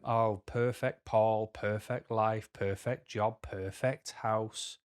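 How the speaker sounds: mildly mocking, sing-off list; understated retold sneer at someone's life; passive aggressive. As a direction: imitate a passive-aggressive dig, evenly paced. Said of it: "Passive aggressive kind of way".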